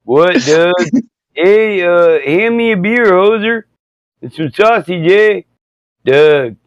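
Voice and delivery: put-on lightly done Canadian hoser accent with "eh"; a hint of the Bob and Doug McKenzie banter. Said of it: "Bob and Doug McKenzie".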